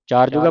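ਚਾਰ ਜੁਗਾ with a single g; untightened misreading. Shown as a demonstration. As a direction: say ਚਾਰ ਜੁਗਾ without doubling the g. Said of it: "ਅਧਿਕ ਲਾ ਕੇ ਨਾ ਪੜੋ".

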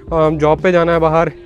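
ordinary talk

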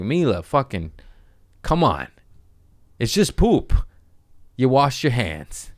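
hammed-up fed-up father; exasperated dad. Dad scolding crying daughter.

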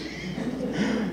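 soft, breath-only laugh; amused laugh. Real, not acted. Presenter after attempting a tongue-twister title, soft laugh. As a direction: laugh off your attempt at the name.

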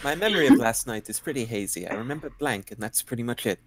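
put-on card read in a mild British accent. Reading a game card aloud to friends in a mild British accent. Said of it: "I read that out in an accent".

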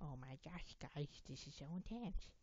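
lightly put-on slurred voice; mock-intense, with slushy s sounds. Gamer telling viewers it's intense, in a lightly put-on voice.

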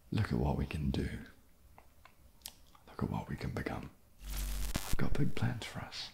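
low tempting murmur to a partner; intimate whisper. Acted. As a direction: lean in and whisper promises. Seductive hushed plans.

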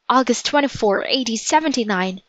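a touch of dawning dread; mild alarm. Acted. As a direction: repeat the date with understated alarm. Jack realizes the date with dread.

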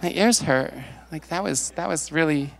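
slow, clutching-pearls shock over the cussing; hammed-up "my ears" horror; mock scandalized prude. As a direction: play a church lady offended by swearing. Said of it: "I'm not gonna be like".

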